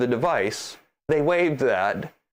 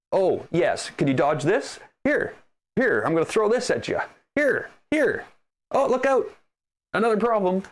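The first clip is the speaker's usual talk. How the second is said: high-pitched mock-eager taunt with little yelps; hammed-up sarcastic customer service; mocking impersonation; 5 semitones higher than usual. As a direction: toss out obstacles like a gleeful heckler. Mocking the company throwing obstacles at him.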